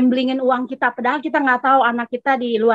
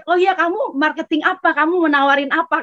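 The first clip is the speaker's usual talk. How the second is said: imitating a startled friend, higher at first; mildly taken aback questioning; retold surprise; 4 semitones higher than usual. Friend hearing she is in marketing, mildly surprised. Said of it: "Dia kaget".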